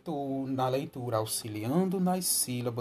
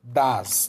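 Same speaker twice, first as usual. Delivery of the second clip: "Das" said alone and louder; loud syllable; 5 dB louder than usual. Shown as a demonstration. Teacher modelling third syllable answer, loud syllable. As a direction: call out "Das" as its own syllable. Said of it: "Qual é a terceira sílaba?".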